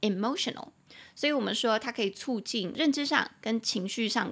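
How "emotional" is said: "emotional" with weight on "mo"; stress on second syllable. Shown as a demonstration. Teacher modelling "emotional" with stress on "mo". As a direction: lean on "mo" in "emotional". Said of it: "中音节在第二音节".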